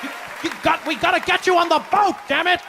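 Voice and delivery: high, pushy voice ordering him aboard; hammed-up boss demanding he board; mock insistent white man.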